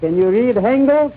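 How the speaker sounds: put-on Patsy asks in a thick Yiddish accent, Hengel's for English; heavy dialect comic salesman. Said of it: "Of course I can read English".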